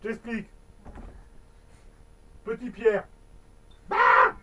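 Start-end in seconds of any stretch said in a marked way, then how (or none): 3.9-4.4 ghost boo. Acted.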